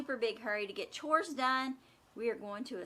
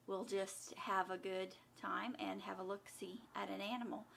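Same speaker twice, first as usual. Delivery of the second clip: whispering; 3 semitones lower, 14 dB quieter than usual. Real, not acted. Unvoiced whisper while planning visit.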